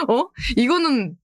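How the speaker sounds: high giggling panic; laughing dismay. Real, not acted. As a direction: squeal through a laugh.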